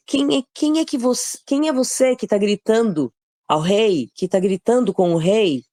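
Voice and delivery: acted startled demand, high-pitched; startled awake. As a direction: blurt it as if jolted from sleep. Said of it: "acredito que ele acordou naquele susto".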